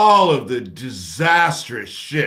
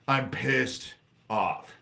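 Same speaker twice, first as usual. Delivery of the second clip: "I'm pissed off" dragged out word by word, very slow; 6 dB quieter, much slower than usual. Real, not acted. A fed-up streamer telling chat he's angry, very slow. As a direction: let each word sink in, slowly. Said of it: "I'm pissed off tonight".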